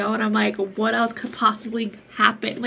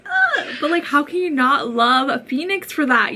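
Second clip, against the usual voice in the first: laughing and much louder, high squeal at the start; laughing gush; 5 semitones higher, 6 dB louder than usual. Real, not acted. Gushing to viewers about loving Phoenix, laughing. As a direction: squeal then laugh through it, smitten.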